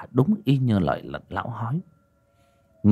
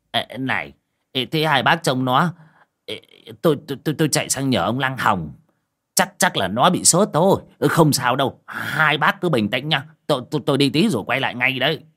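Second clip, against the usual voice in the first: higher, louder flustered stammering; 5 semitones higher, 4 dB louder than usual. Acted. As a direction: stumble through reassurance while rushing off. Neighbor flustered, runs for help.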